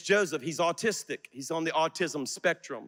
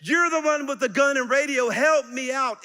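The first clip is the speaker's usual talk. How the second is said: higher, louder, exasperated demand; mad at the guard; 9 semitones higher, 5 dB louder than usual. Retold or imitated. Preacher retelling his anger at the guard, higher and louder. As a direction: vent your anger at the useless guard. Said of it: "it made me so mad".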